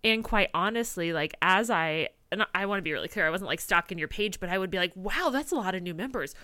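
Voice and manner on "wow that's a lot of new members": rising into a loud amazed cry; mock amazed. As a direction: build from wow to a loud thrilled shout. Retold excited inner voice.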